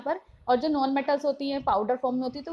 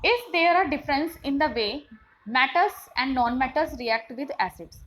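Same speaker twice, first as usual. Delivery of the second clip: very slow, careful textbook reading; slow classroom read-aloud; much slower than usual. Shown as a demonstration. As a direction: spell out the question for students. Reads textbook question aloud.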